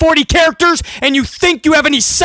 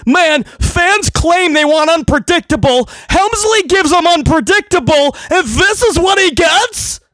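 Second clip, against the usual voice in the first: higher, drawn-out whiny complaint; mock indignation; 4 semitones higher than usual. Mocking fans who defend the booking, indignant complaint. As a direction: parody an aggrieved defender.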